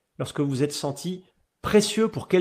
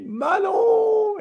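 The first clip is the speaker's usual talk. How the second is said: a high, delighted call across the ward; a much higher happy shout of her name; glad call; 4 dB louder than usual. Retold or imitated. Calling out on seeing nurse.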